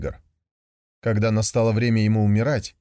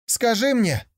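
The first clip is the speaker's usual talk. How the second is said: calling from afar; 11 semitones higher than usual. Acted. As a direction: shout over to the yak from far off. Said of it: "закричал издали тигр".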